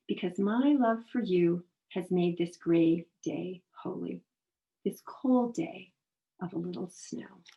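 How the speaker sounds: deliberate poem voice; poem reading. Acted. Reads a poem aloud.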